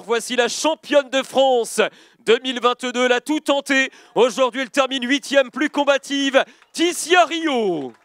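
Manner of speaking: rising announcer hype toward the name; building excitement. Acted.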